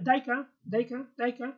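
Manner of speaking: daika with a short a on the end; short final a. Shown as a demonstration. Teacher models the word for learners, short final a in "daika". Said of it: "put this short vowel at the end".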